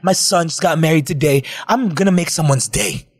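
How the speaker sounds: lightly voiced happy old stranger; sweet old man. Old man on a train cheerfully telling the couple. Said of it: "I imagine me being the sweet old man".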